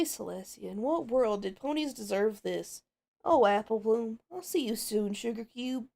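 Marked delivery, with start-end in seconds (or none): 3.2-5.9 lightly Southern, missing her little sister; Southern accent. Acted. The farm pony says goodbye to her sister, light Southern accent. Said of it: "you get Southern".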